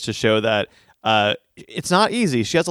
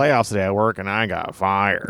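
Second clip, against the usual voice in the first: Weasley voice; 4 semitones lower than usual. Acted. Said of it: "You gave him such a Weasley voice".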